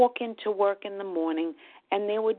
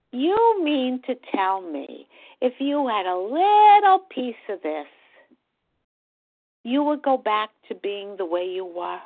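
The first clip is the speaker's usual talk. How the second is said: sarcastic mocking question; 3 semitones higher, 6 dB louder than usual. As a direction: sneer it like a smug teenager. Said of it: "very sarcastically".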